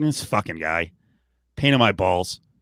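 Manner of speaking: slow delivery with words dragged out. Imagining what Kraft thinks of Belichick: imitating Kraft. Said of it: "Kraft is probably like".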